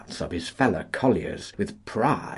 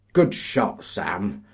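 exclaiming; 2 semitones higher, 4 dB louder, slower than usual. Acted. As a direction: cheer him on. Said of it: "the men exclaimed".

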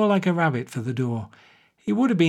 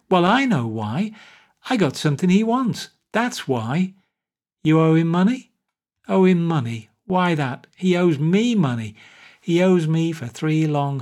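put-on louder, boastful drunk grievance; drunk playwright ranting; 3 semitones higher, 3 dB louder than usual. Drunk Wall complains to Pat about Bannerson, loud boastful rant. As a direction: grumble it like a wronged genius.

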